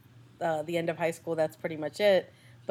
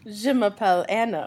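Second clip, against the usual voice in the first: a touch of mock French host, a bit louder; playful French intro; 3 semitones higher, 5 dB louder than usual. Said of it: "Okay, back to English".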